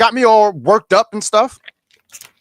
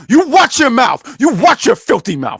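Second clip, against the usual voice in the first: mock scolding; 3 semitones higher than usual.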